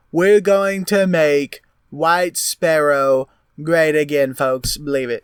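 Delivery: bombastic campaign promise voice; political rally speech. Pretend. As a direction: brag like a populist politician.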